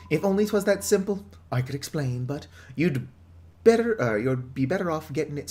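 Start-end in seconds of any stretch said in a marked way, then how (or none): 0.1-4.2 a hint of a proud, weary townsman; lightly voiced villager. Villager greeting the newcomers, lightly voiced. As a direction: read the villager's welcome with some flair. Reads villager's lines in character.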